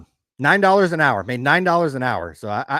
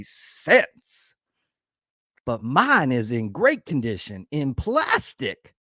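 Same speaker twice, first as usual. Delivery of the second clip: Southern accent; 3 dB louder, slower than usual. Shown as a demonstration. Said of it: "a little Southern accent".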